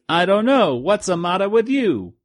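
high, cheeky cartoon prankster; cheeky prank caller. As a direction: deliver the prank gag high and sly. Crank caller punchline.

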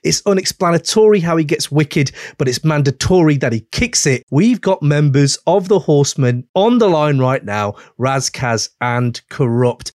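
punchy announcer read over the beat; hype radio host intro. Acted. Host hyping two rap legends on air, announcer style.

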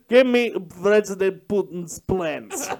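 slow mock Russian interrogator accent; a lightly done Russian accent, slow and menacing. Interrogator demanding Putin's plans in a mock Russian accent. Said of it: "You do a really good Russian accent".

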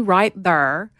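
THERE said as "thurr"; rhymed slang pronunciation. Shown as a demonstration. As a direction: say "there" like "thurr", one r-coloured syllable. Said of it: "there does not s-, even sound normal".

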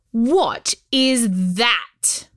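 put-on haughty girl. Haughty princess interrupts.

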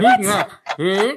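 slow garbled words round a mouthpiece; mouth full. Real, not acted. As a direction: talk with a stretched mouth. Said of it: "what I'm saying with my mouth full".

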